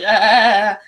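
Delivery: loud stuttered "ah" of pretend horror; mock freak-out noise. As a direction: let out a spooked mock cry. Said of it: "it freaked me out".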